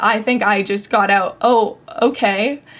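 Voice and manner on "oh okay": acted stunned, dumbfounded, speechless tone. Speaker retelling the moment she had no idea how to respond, retelling a stunned reply. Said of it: "mouth open, no idea how to respond".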